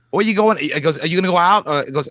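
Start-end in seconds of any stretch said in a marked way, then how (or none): 0.1-0.6 higher, louder mock Maine accent; playful take on a Maine accent. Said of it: "that, that Maine accent". 1.0-1.7 higher, louder mock Maine accent; playful Maine-accent question. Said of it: "that, that Maine accent".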